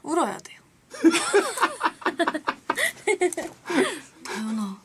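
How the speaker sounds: flustered whiny leader voice, laughing; Yuyeon impression. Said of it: "자, 김유연".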